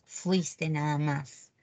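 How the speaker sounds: slow, low model "Fuiste" with no final s; correct form. Shown as a demonstration. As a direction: say "Fuiste" slowly, no s at the end. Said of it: "Nunca lleves a ese horrorosa al final".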